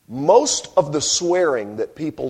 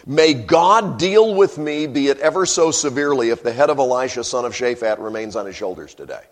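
king's angry oath; 5 dB louder than usual. Retold or imitated. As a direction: spit out the oath. Preacher voices king's oath.

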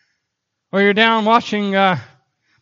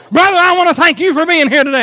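keyed-up preacher; 4 semitones higher, 4 dB louder, faster than usual. Retold or imitated. Acts out keyed-up visiting preacher.

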